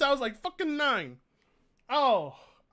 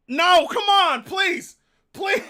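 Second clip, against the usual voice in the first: higher, begging please; a higher pleading whine; 5 semitones higher, 5 dB louder, slower than usual. Real, not acted. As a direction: beg to be let off. Begging to skip slaps.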